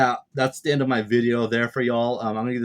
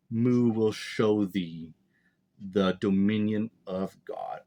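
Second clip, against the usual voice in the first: lightly voiced solemn ruler, slowing toward the end; a hint of archaic, measured pronouncement; Imu. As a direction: read it as a mildly grand decree, drawing out the last phrases. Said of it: "he's speaking like this through Gunko".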